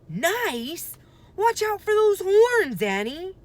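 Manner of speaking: high loud frightened yell; alarmed warning. A narrator's reading. Jack yelling at Annie to mind the horns, alarmed. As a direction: shout the warning at her.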